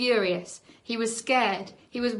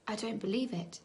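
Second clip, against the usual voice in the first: softer, hoarse disbelief; 8 dB quieter than usual. Acted. Charlie hoarse with shock. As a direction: rasp it out in shock. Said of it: "he said hoarsely".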